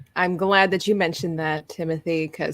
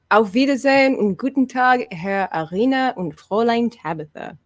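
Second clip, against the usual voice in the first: German accent; 3 semitones higher than usual. Shown as a demonstration. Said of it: "I'm not sure how well my German accent was".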